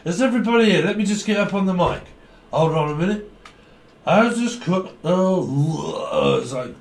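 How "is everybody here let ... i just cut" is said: put-on drunk party host. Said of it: "Is what I keep hearing".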